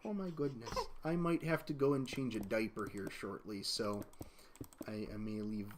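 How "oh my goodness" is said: laughing. Real, not acted. Laughing at baby's diaper.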